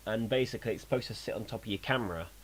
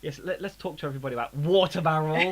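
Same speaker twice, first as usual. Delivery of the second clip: sarcastic; 5 semitones higher, 7 dB louder than usual. Real, not acted. Sarcastic mock enthusiasm.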